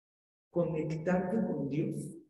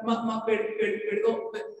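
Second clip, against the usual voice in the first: put-on stuttering boy; 4 semitones higher than usual. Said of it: "Así tartamudeando".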